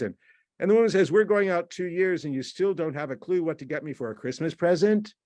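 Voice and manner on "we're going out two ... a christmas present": higher-pitched mock reproach; accusatory. Girlfriend challenging boyfriend over the present, accusatory. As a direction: press the complaint into a question. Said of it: "this could sound quite accusatory".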